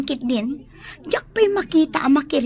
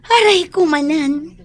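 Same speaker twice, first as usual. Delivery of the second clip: mock ouch; 5 semitones higher, 6 dB louder than usual. Friend teased about boyfriend.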